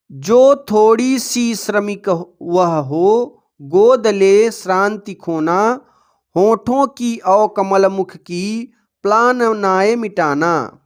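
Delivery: slow, measured poem reading with stretched words; verse recitation. Acted. Teacher reading the underlined lines to pupils, slow verse recitation. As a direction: draw out each word of the verse.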